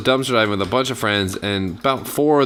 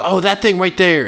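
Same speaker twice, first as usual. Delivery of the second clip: excited reply; 10 semitones higher, 5 dB louder than usual. Retold or imitated. Friend answers cop, voice jumps up.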